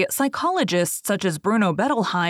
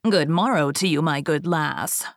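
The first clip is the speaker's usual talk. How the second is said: a hint of a sly goblin; gravelly sly hobgoblin; 2 semitones lower than usual. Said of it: "said the hobgoblin".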